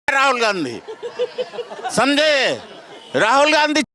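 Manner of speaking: laughing scornfully while saying the name; mocking laugh. Real, not acted. Villager laughing at the reporter's question about Rahul Gandhi, mocking laughter. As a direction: chuckle through the name with derision.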